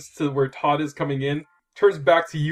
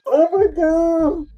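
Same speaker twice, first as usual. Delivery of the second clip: disbelieving laugh; 13 semitones higher, 8 dB louder, much slower than usual. Real, not acted. GM reacting in disbelief.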